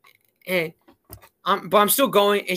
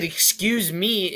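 "Excuse me." drawn out slowly and pointedly; pointed, slow and cool; slower than usual. Retold or imitated. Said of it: "or I said".

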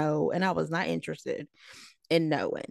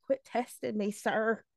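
mutedly sassy retort to a teacher; snarky; 3 semitones higher, 5 dB quieter than usual. Retold or imitated. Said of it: "I was being real snarky".

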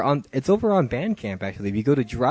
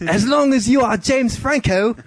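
put-on much higher, louder girlish voice; girl's voice; 11 semitones higher, 5 dB louder than usual. Host reading the girl's texts in a high girl voice.

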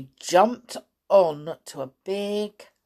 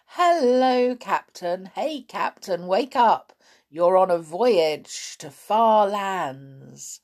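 calling out to wake a sleeper, lifted voice; teasing call; 3 semitones higher, 5 dB louder, slower than usual. Acted. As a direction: hail the captain with mock excitement. Amelia teases sleeping sailor, calling out.

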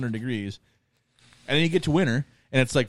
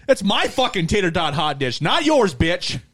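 a higher, louder laughing mock rant; mock angry, laughing; 7 semitones higher, 4 dB louder than usual. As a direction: defend the hot dish in hammed-up outrage through laughter. Mock defending tater tot hot dish.

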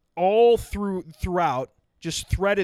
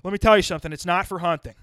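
1 dad voice; 6 dB louder, faster than usual. Retold or imitated. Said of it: "He goes".

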